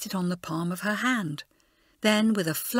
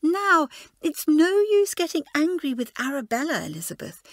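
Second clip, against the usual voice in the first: soothing; 8 semitones higher, 4 dB louder than usual. A narrator's reading. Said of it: "She spoke soothingly".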